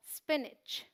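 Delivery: स्पिनच said as "SPIN-ich"; pure "s" onset in स्पिनच; teacher's model of स्पिनच without a leading vowel; correct pronunciation. Shown as a demonstration. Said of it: "ये स sound आएगा".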